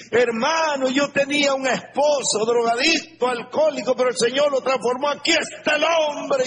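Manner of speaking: high, excited testimony that swells to a shout at the end; a proud believer bursting to share her miracle; testifying wife. Retold or imitated. Preacher imitating a joyful wife's testimony, high and excited.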